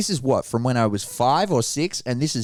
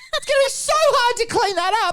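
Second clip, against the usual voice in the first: put-on angry yelling, pitched higher; 3 dB louder than usual. Retelling how the teacher scolded a child: imitating a teacher yelling. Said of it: "just starts going off at him".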